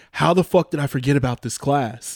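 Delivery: mild, baffled exasperation; retold exasperation. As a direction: act out being baffled at yourself. Acting out baffled dream panic.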